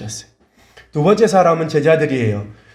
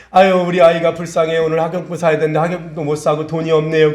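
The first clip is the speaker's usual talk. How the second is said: raised-pitch tearful complaint, imitated; mock crying; 3 semitones higher than usual. A parent laments to the Lord about school supplies, mock crying. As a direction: imitate a parent whining through tears. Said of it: "그리고 막 울고 있는 모습이".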